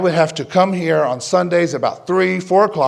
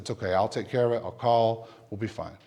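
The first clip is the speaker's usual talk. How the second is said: low, soft retold reassurance; gentle; 5 semitones lower, 9 dB quieter than usual. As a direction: calmly take charge for someone upset. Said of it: "slow down, be gentle".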